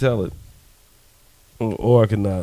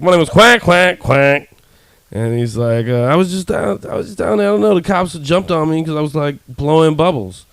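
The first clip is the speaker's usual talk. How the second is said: duck voice; 5 semitones higher than usual. Acted. Third duck in joke.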